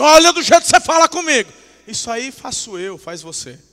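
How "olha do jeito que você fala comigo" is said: loud, high, fast telling-off; mock stern scolding. Playing God scolding someone for their tone, loud mock rebuke. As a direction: snap it like an offended parent. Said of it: "é que Deus não tá assim".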